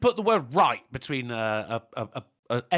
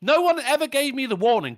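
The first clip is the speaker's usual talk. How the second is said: indignant; 5 semitones higher than usual. Retold or imitated. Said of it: "I'm like".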